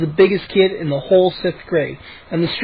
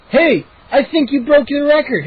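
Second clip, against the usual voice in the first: declaring; 8 semitones higher than usual. A narrator's reading. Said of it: "I declared".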